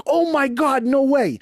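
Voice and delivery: high, thrilled squeal of disbelief; imitating a thrilled squeal of disbelief; excited disbelief. Wife hearing he got the camp, imitated as a high thrilled squeal. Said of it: "She's like".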